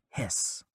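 soft breathy snake hiss, no voice; whispered hiss. Retold or imitated. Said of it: "just went".

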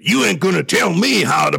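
defiant Southern accent imitation. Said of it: "I'm using the Southern accent here".

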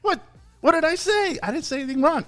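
retold protest of innocence. Retells protesting innocence to accuser.

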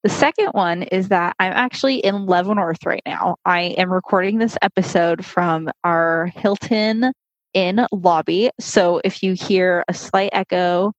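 muffled through a mask; talking with a mask on; through a face mask. Real, not acted. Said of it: "I might sound a little muffled".

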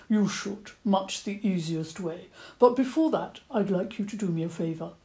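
a fussy old badger asking politely. Old badger asking the children for an apple, stammering.

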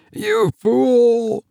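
high shocked outburst; high, shaken cry of blame; stammered. A narrator's reading. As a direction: blurt it out in horror. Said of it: "stammered Bob".

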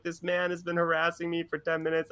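mock-plaintive passenger; complaining woman. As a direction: complain in a put-on high voice. Woman complaining in retold argument.

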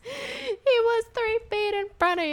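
high, slow sarcastic put-on voice; mock him in a high, drawn-out voice; mocking scoff. Mocking Axel's advice.

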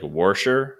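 "Worsher" with an R in the first syllable; Pittsburgh pronunciation. Retold or imitated. Imitating people met from Pittsburgh, "Worsher" with an added R. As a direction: say "Worsher" as Pittsburghers do, WOR-sher. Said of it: "they'll say, like".

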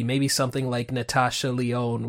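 ordinary talk

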